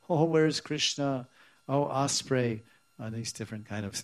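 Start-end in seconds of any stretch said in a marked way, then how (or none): 0.1-2.6 higher-pitched imitated lament; mock pining. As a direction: call out as if pining for someone lost. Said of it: "they started pining and".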